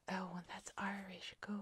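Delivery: ordinary delivery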